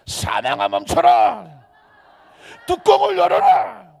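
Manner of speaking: full-force, high shouted command; 우렁찬 외침. Shown as a demonstration. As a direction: roar the order at death, stretched out. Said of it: "안 되겠다". (온 힘을 다해 크게 외치며)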